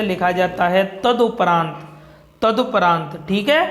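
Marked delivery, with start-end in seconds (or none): 1.0-3.2 तदुपरांत said with a short u after द, "tad-u-paraant"; correct form. Shown as a demonstration. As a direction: stress the short उ in तदुपरांत, not ओ. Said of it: "छोटे ऊ की मात्रा आती है". (तदुपरांत में छोटा उ साफ़ बोलें)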